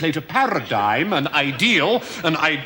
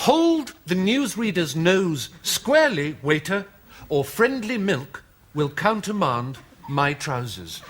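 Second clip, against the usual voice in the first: slow, deliberate delivery. Shown as a demonstration. Presenting a sentence never spoken before, slow and deliberate. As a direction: lay each word down slowly, savouring it. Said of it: "I can say the following sentence".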